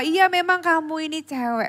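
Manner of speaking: amused, laughing reply. Retelling a story where the father answers his son: imitating a father laughing. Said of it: "Terus papanya itu ketawa".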